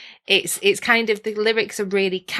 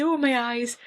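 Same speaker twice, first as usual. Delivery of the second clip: put-on old lady voice; 4 semitones higher than usual. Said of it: "I sound like a little old lady".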